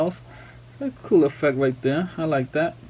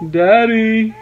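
voicing the baby; 5 semitones higher, 4 dB louder than usual. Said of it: "You're saying".

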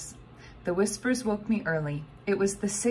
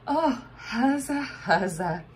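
joyful shout; 5 semitones higher than usual. A narrator's reading. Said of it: "she shouted it into the air".

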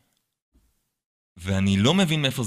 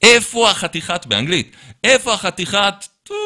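mock angry yell; 8 semitones higher than usual. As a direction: bark the question at the room like an angry boss. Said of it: "והוא מתחיל לצעוק".

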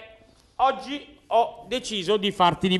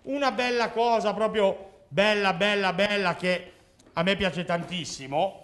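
sottovoce; 6 dB quieter than usual. Acted. Mago annuncia piano il trucco.

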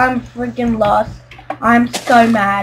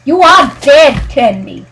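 mock threat; 5 dB louder than usual. Real, not acted. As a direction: warn the griefer with a raised voice. Threatening the griefer.

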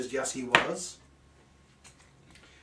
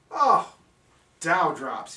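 laughing; 5 dB louder, much slower than usual. Acted. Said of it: "he laughed".

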